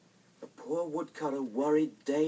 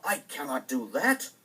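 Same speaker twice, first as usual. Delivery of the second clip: pleading father; 4 dB louder than usual. Acted. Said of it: "cried the woodcutter".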